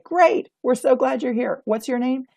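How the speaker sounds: upbeat greeter welcoming a guest; cheerful greeter. Shown as a demonstration. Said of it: "to say".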